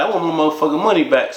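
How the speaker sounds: fast, insistent demand for the money; firm demand. Retold or imitated. Narrator repeats his demand to Mike, fast and insistent. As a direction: lay it down flat, no backing off.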